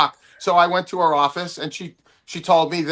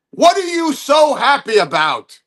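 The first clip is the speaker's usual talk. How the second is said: higher-pitched, demanding caller impression; imitated phone caller; 7 semitones higher than usual. Mentor phones the comic out of nowhere, imitated demanding caller. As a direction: pitch it up, grilling someone. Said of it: "this voice comes on the phone and says".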